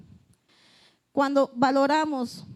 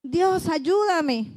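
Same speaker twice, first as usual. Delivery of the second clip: slow, higher, drawn-out cry for help; anguished plea; 4 semitones higher, much slower than usual. Acted. Preacher voicing Jonah crying to God from the sea, anguished plea. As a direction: beg God like a drowning man.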